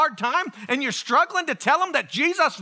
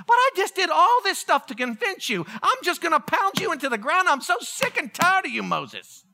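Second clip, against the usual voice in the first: mildly exasperated, higher-pitched rant; fed-up God; 5 semitones higher than usual. Acted. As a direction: act out God losing patience with Moses.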